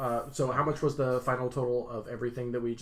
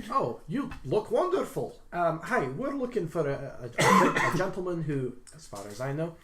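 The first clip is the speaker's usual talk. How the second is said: polite character voice; 4 semitones higher than usual. Acted. Character greets shopkeeper in play.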